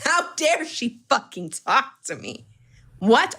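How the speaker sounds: slow, high, indignant mock outrage; mock offended man. Imitating men upset that a woman spoke, slow mock outrage. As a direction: play the offended guy, dragging it out. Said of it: "They're like".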